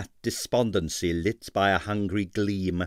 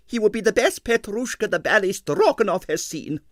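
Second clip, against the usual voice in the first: grand ballerina; 11 semitones higher than usual. A narrator's reading. Arienskaya praise.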